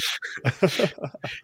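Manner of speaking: laughter. Real, not acted. Guest laughs after teasing exchange.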